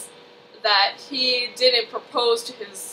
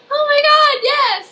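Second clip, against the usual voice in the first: thrilled yes; 7 dB louder, slower than usual. Retold or imitated. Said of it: "she's like".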